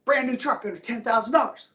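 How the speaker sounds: hammed-up amazement at a bargain; mock amazed buyer. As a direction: gush like a dazzled shopper. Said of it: "you look at that and go".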